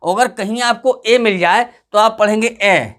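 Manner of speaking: ए said as a short flat "ae", not "aaye"; short a sound. Shown as a demonstration. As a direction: give ए the short vowel of cat. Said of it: "आए नहीं". (ए को छोटी आवाज़ में बोलें)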